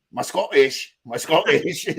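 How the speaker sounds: badly faked Scottish accent. Shown as a demonstration. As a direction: try a Scottish accent and miss. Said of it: "It's even worse".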